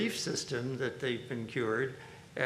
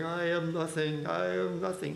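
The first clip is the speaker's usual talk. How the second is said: put-on humble wail, pitched up; wailing rabbi impression; 5 semitones higher than usual. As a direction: imitate a rabbi humbling himself at the wall. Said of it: "He always did it with this wonderful accent".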